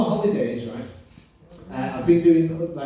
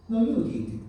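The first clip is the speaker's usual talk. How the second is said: put-on higher-pitched Mediterranean-accented woman; 5 semitones higher than usual. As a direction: imitate a café worker's Mediterranean accent. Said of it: "favourite experience of the Mediterranean accent".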